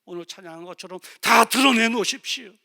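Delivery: loud, high, ringing sermon voice; full-force preaching. Acted. (힘차게 외치는 설교)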